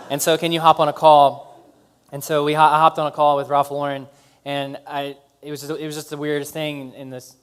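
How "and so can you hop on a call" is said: laughing. Real, not acted. Laughing through his own quote.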